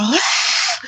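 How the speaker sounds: breathy, voiceless mock scream; hushed imitation of screaming; imitated scream. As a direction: mimic a scream without full voice. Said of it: "like somebody was killing her".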